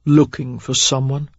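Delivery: soft, menacing drawl. A narrator's reading. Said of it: "a soft drawl".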